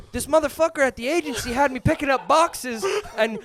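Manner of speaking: imitating a dad who won't stop talking; rambling dad. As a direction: ramble into an unrelated work gripe. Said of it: "he's just rambling".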